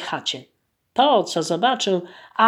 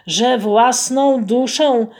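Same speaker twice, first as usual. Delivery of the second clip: groaning plea; 3 semitones higher, 4 dB louder than usual. Acted. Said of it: "jęknął".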